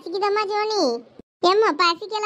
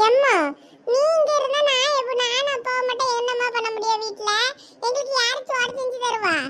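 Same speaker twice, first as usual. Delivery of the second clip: pleading; 4 semitones higher than usual. Acted. Son pleading with mother.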